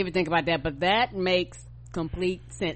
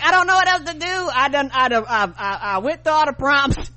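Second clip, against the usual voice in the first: high, fast, louder flustered complaint; mock frantic; 5 semitones higher, 5 dB louder than usual. Partner imitating herself at her wit's end, high and fast. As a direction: sound frazzled and helpless. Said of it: "'cause I'm like".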